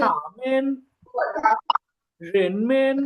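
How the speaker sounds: "থামেন" with a light, toneless last syllable; careful Chinese "থামেন", unstressed ending; neutral-tone demonstration. Shown as a demonstration. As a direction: model "রেনমেন" carefully, first syllable carrying the tone. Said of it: "কিভাবে উচ্চারণ করতে হবে".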